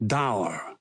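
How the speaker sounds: a low, smiling echo of "Dour"; smiling repeat. Acted. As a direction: savour the word "Dour", low and amused. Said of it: "Goering repeats, smiling".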